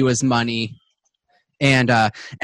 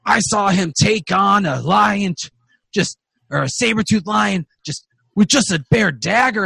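high, loud, boisterous dwarf; dwarf insisting; 7 semitones higher, 4 dB louder than usual. Acted. Another dwarf talks up the dead hunter, boisterous and high. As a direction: talk him up in a rowdy dwarf voice. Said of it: "And then there's another one".

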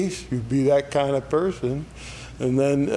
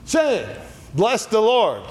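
hollering; 7 semitones higher than usual. Retold or imitated. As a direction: shout it up like an excited crowd. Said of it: "They're hollering".

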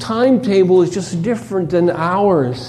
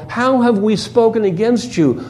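sarcastic; 4 semitones higher than usual. Retold or imitated. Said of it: "Notice the sarcasm here".

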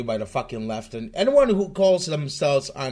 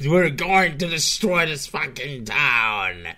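slow mock angry repeat; imitating the angry speaker. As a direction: parrot the ranting guy, mockingly slow. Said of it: "Jesus Christ, man, calm the fuck down".

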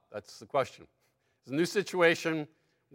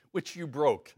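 laughing jab. Acted. God needling Moses about the tablets, laughing. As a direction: tease him with a laugh.

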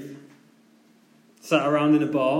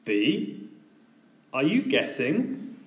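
condescending; slower than usual. Retold or imitated. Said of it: "in a pretty condescending tone".

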